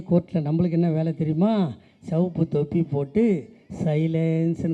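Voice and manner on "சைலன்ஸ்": drawn-out, restrained imitation of a call; mock court crier. Speaker showing the red-capped court attendant's job, mock crier's call. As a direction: stretch the word out like a mild mock shout. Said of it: "சைலன்ஸ்னு கத்தணும்".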